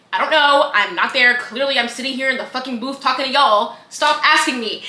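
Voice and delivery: mock fed-up outburst; exasperated host. Radio host telling callers to stop asking, mock exasperated. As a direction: act out being sick of the questions.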